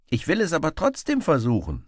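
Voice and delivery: high, loud headstrong insistence; stubborn. Acted. Robin stubbornly repeats to the beggar, high and loud. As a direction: dig in your heels. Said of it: "wiederholte Robin dickköpfig".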